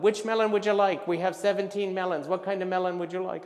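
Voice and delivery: loud, high, pushy questioning; brusque melon clerk. Acted. Clerk quizzing a melon buyer, pushy. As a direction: fire questions at a dithering customer.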